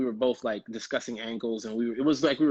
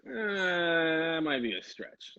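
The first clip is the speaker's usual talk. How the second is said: long drawn-out hesitant "eh", higher; doubtful; 4 semitones higher, much slower than usual. Retold or imitated. Actor balking at a Russian script, doubtful. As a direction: hem and haw slowly.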